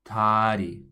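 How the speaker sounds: Korean "다리", the R flapped lightly; Korean dari. Shown as a demonstration. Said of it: "The next word we would like you to try is".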